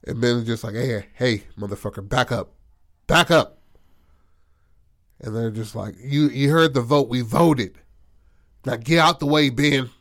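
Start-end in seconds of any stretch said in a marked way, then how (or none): 0.8-3.6 threatening warning. Retold or imitated. Ben threatening the twins. 6.0-9.9 menacing demand. Retold or imitated. Twins menacing Ben.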